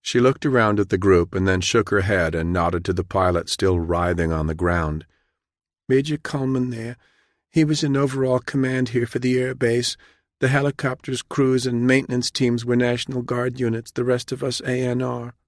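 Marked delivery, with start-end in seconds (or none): 5.9-15.3 higher, meek woman's voice; subdued junior officer, pitched up; frightened young captain. A narrator's reading. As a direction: report timidly to a superior.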